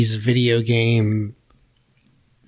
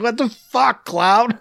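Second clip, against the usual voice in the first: mock surprise; 11 semitones higher, slower than usual. Mock shocked quote.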